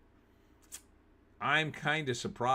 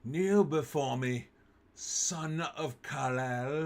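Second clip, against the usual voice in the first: slow, lightly voiced evil general; a hint of a cold villain, drawn out; General Zod; 2 semitones higher, slower than usual. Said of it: "Oh, he was a good Zod".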